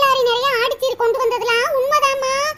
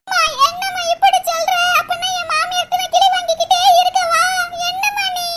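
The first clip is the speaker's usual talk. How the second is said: higher, whimpering plea; whiny near tears; 4 semitones higher than usual. Acted. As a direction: sulk to make mother give in. Daughter whines near tears.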